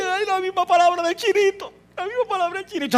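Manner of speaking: más agudo, conmovido y emocionado; emoción llorosa. Retold or imitated. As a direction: emocionado al reconocer la misma palabra. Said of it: "comienzas a llorar y dices". (voz emocionada y aguda)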